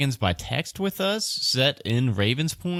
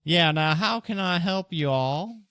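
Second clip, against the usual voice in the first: put-on higher-pitched old dwarf voice; elderly dwarf; 7 semitones higher than usual. Game master as elderly dwarf greeting visitors, higher old-woman voice. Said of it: "an elderly looking dwarf".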